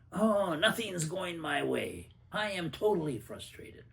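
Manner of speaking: a touch of put-upon frustration; mock frustrated. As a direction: sigh out a mild mock gripe.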